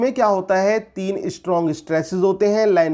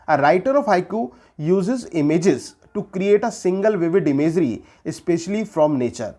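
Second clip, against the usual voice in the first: slow dictation; much slower than usual. Shown as a demonstration. Dictating English definition to students.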